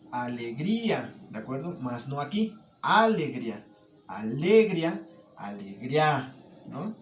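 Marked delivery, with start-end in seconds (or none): 0.1-1.1 alegría with GRÍ stressed, slow; correct stress. Shown as a demonstration. Teacher giving the right stress, slow. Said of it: "la carga tónica en alegría debe de ir en esta sílaba". 2.8-6.3 alegría with the stress on the wrong syllables. Shown as a demonstration. Teacher showing wrongly stressed versions, oddly. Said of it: "Se escucha raro".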